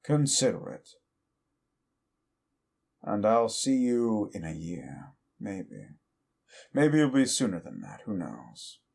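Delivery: lightly voiced demon villain, mocking and smug; Rabal taunting. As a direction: sneer at the listener like a smug demon, only lightly put on.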